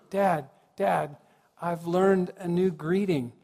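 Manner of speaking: retold child's eager news, slightly lifted; a touch of a child's excitement; mildly excited child. Excited son home from school telling his dad, mildly eager. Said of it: "he was all excited".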